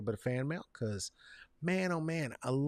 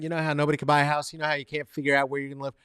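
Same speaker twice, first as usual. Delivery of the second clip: ordinary talk, nothing marked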